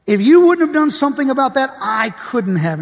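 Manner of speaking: repeating back in shock; echoing the Lord's words in disbelief; incredulous repeat. Retold or imitated. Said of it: "Did I hear you right".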